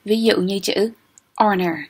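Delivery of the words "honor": "honor" with the H left silent; "honor" without any h sound. Shown as a demonstration. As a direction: say "honor" starting straight on the vowel. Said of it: "âm câm".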